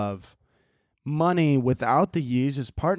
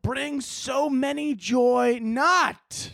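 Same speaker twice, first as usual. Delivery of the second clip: mock CEO speech; 7 semitones higher, much slower than usual. Mock corporate speech, slow and high.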